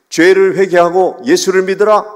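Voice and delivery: high, forceful missionary shout; loud preaching cry. Retold or imitated. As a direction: call out a booming, urgent command to a passerby. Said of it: "이렇게 외치는 거예요".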